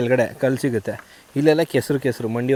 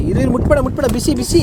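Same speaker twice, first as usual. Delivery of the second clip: high, loud don't touch; urgent warning; 12 semitones higher, 7 dB louder than usual. Real, not acted. Warning the toddler off the hot pot, high and loud.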